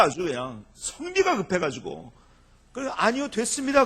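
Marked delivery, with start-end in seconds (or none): 2.9-3.8 louder, higher standard-Korean refusal; long-form formal no; standard polite refusal. Shown as a demonstration. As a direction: spell out the full polite refusal. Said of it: "그런 말을 그렇게까지 못해요".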